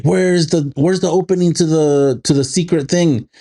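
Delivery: interrogator. Retold or imitated. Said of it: "the, like".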